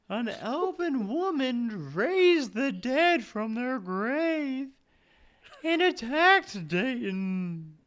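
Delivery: put-on high, slow ghost girl; drifting, wistful ghost. Plays the ghost.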